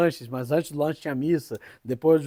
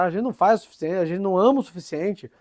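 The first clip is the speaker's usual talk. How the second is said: mildly outraged, raised pitch; retold indignant protest; 4 semitones higher than usual. João protests to the former pupils after listing sacrifices, mildly indignant. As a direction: imitate someone protesting an unfair reproach. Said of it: "ele fica assim, revoltado".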